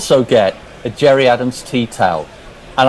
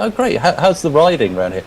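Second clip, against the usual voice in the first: higher, lightly imitated eager Englishman; posh English guy; 5 semitones higher than usual. English visitor asking his client about riding, lightly imitated enthusiasm. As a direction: lightly play a keen country-pursuits gent. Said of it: "the English guy says".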